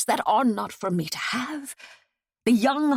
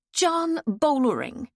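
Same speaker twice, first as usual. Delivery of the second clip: sighed; 6 semitones higher than usual. Acted. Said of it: "she sighed".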